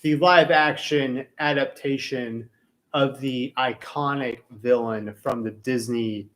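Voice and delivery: slow, loud intro announcement read; show intro read. Acted. Host opening the episode for listeners, slow announcer read. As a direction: announce the topic like a show opener.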